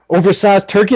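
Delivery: repeated as a mild mock yell. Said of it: "and he goes".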